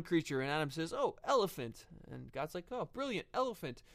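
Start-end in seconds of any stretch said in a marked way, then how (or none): 0.9-1.9 higher, lively pitch on a naming guess; acted-out light eureka; playful Adam voice. Acting out Adam naming animals. 2.7-3.8 high-pitched, approving reply; playfully impressed, pitch jumping up; acted delight. God's delighted reply to Adam.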